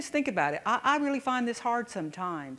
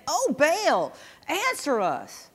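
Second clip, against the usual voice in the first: crying to Baal; 5 semitones higher, 4 dB louder, much slower than usual. Acted. Prophets of Baal crying to god.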